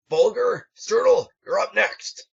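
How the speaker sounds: high, loud roll call; calling out names. Acted. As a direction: call the next pair across the field. Instructor calls names.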